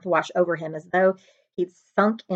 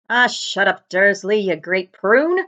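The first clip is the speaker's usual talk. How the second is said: slow, louder gruff brush-off; dismissive giant; 4 dB louder, slower than usual. Acted. The giant brushes off Dursley, slow and louder. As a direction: wave the little man away. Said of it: "said the giant".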